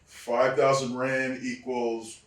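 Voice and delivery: loud then slow reveal; mock-solemn agent. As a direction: draw out the punchline slowly. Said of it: "Joe Briscoe goes".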